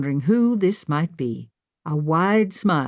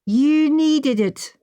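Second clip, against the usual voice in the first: reassuring; 9 semitones higher, 3 dB louder, much slower than usual. A narrator's reading. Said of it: "Sinclair assured me".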